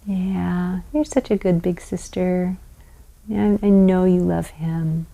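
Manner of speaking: put-on soft, quiet praise to an upset child; soothing parent. Shown as a demonstration. Parent calming the older sister near the baby, softly. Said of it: "And you just go".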